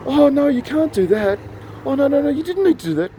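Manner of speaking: very high, mock-flustered objection; retold grateful protest. Retold protest at paid bill.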